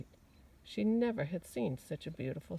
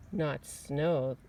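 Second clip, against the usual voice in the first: hissing snake; 5 dB louder, much slower than usual. Acted. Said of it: "the snake hissed".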